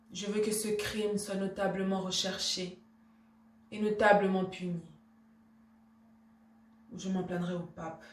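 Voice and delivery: low, soft, measured threat; controlled ultimatum. Acted. Wife threatening to complain to the pope, controlled ultimatum. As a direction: drop low and declare it with restraint.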